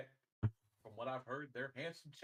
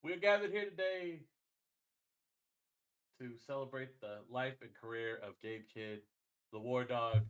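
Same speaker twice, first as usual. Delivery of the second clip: faltering tender eulogy; 5 dB louder than usual. Acted. Mock eulogy for Gabe Kidd.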